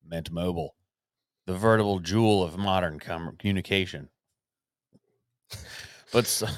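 grand Shakespearean ad read; hammy stage actor. Acted. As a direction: ham it up like an old stage actor. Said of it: "Your Chat G P T is funny".

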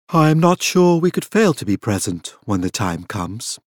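level tone. Acted. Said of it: "the level tone he had always used".

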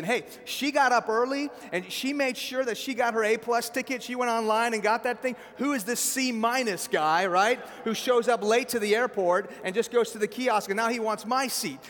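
mock-offended, building a case for herself; indignant passenger. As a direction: voice her affronted inner rant. Preacher voices passenger's indignant thoughts.

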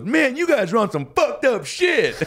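high, drawn-out stranger's exclamation; slow, high-pitched comic astonishment; mock amazement. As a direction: stretch it out in hammed-up disbelief. Acting out a stranger's amazed reaction.

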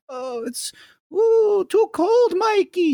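put-on shiver it out like a tiny old grandma; old grandma complaining. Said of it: "And she'd be like".

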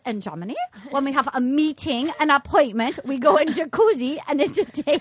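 lightly imitated German accent, matter-of-fact; a mild German dad laying down the rule; Dieter's German accent. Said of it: "And he goes".

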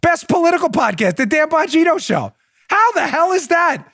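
high, incredulous, half-laughing disbelief; as if he can't believe what he's reading; surprised disbelief. Real, not acted. Host finds his own nomination.

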